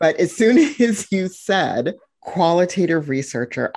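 talking through a laugh. Real, not acted. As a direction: laugh while saying it. Laughing through excited comment.

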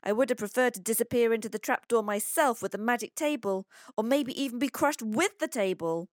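put-on high, agitated boy's rush of woe; breathless, dramatic nightmare retelling; out of breath. A narrator's reading. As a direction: pour out the disaster in a high, worked-up child voice. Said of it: "continues Pablo out of breath".

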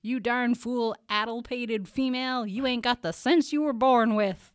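put-on old-timer accent, a mild yell; Jasper's accent. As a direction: scold in the cranky uncle's accent. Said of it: "I'll do it with the accent".

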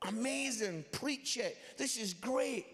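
admiring son. Retold or imitated. Admiring son cheers his preacher dad.

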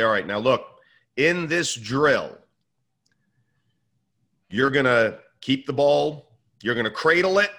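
a hint of a youth coach on the field; coach addressing players. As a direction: lay out the drill firmly, pausing between phrases. Coach acting out drill instructions to kids.

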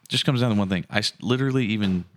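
thumping the table while talking; banging the desk. Real, not acted. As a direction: hit the desk on each point. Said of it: "Quit hitting the table".

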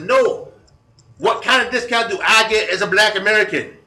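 high, loud put-on Black American accent, laughing through it; Ebonics imitation. Prank caller asking the store manager about discounts, hammed-up high, loud Black American accent. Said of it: "Ebonics imitation".

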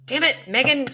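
frustrated outburst. Real, not acted. Cursing at own flub.

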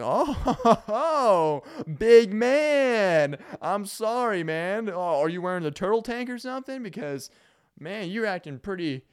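high, loud, laughing taunt at dad; mocking sass. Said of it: "I was like".

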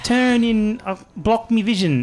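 high-pitched voice. Acted. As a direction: talk high like a giddy little guy. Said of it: "your voice got higher".

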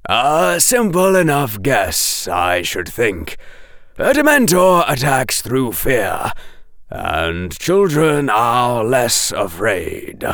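measured, deliberate scholarly voice; lightly voiced professor explaining patiently; slow, stretched endings; Professor Quirrell.

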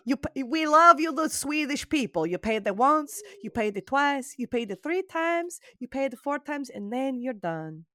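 mock Swedish accent, sing-song; hammed-up Swedish accent. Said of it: "That's a terrible Swedish accent".

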